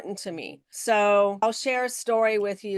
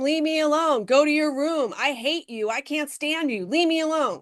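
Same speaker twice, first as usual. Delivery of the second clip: imitating a fed-up parent, pitched higher; a half-acted angry outburst, raised and high; mock angry yell; 5 semitones higher than usual. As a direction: snap it out like you're sending a kid to his room. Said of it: "You yell at him and tell him to shut up".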